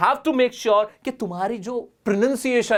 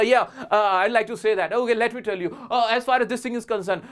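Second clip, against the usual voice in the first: reflexive demo; 3 semitones higher, much slower than usual. Shown as a demonstration. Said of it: "एकदम उठे ना तो एकदम तुम बोला".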